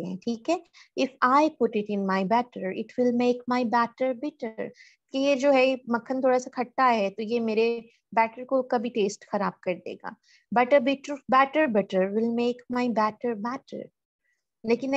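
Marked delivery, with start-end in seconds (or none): 1.0-4.7 slow reading. Shown as a demonstration. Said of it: "बी का sound". 10.6-13.8 slow reading. Shown as a demonstration. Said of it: "बी का sound".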